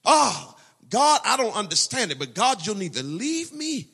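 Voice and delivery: fervent prayer. Acted. Preacher voicing a fervent prayer.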